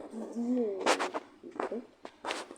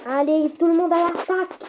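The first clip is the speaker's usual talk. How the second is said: high, loud rallying shout; attack order shout; 6 semitones higher, 8 dB louder than usual. Acted. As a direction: send everyone in.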